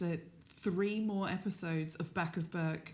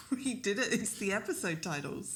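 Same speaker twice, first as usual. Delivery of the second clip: excited triumph; 3 semitones higher than usual. Acted. Co-host celebrating decoding the episode titles, excited cheer. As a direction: cheer the breakthrough. Cracking the code together.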